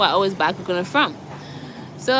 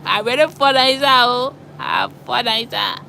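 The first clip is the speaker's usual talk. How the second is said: Liberian slang; 3 semitones higher than usual. Retold or imitated. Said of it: "But it's like".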